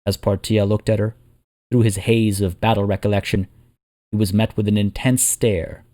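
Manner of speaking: measured dramatic fantasy narration; storyteller's voice with deliberate pauses; story narration. A narrator's reading. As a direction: tell it like an epic war chronicle. Narrates a fantasy war tale.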